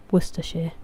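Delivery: Worcestershire said as "WUUS-tuh-sheer"; correct British pronunciation. Shown as a demonstration. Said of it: "How is Worcestershire pronounced?".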